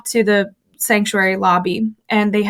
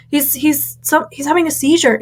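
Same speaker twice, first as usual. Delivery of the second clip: panicked; 6 semitones higher than usual. Retold or imitated. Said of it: "I started panicking".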